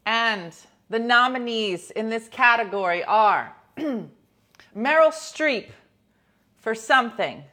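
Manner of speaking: hammed-up awards host reading nominees; mock Oscars presenter; awards announcer.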